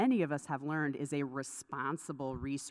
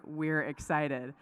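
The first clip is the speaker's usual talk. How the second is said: put-on slow "we're excited" in a light Southern accent; much slower than usual. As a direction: stretch "we're excited" to sound like "works cited". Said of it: "sounds like".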